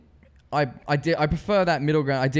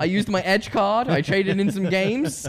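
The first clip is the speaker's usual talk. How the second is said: proud, higher-pitched brag; excited bragging; 6 semitones higher than usual. Real, not acted. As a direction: boast it like a win. Proudly boasting of free game.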